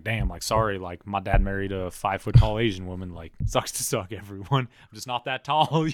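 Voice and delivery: jokey sorry, dissolving into laughter at the end; laughing apology. Retold or imitated. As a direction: laugh through the excuse about your height. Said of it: "I would have been like".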